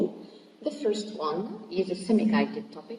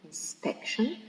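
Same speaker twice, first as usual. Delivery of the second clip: "inspection" with SPEC stressed, pitched higher; stress on second syllable; 4 semitones higher, 4 dB quieter than usual. Shown as a demonstration. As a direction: model "inspection" as in-SPEC-tion. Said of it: "stressed in the second syllable".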